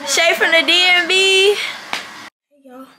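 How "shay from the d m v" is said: higher, proud intro; playful proud shout-out; hyped local intro. Pretend. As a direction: announce yourself like a local. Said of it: "I'm about to say".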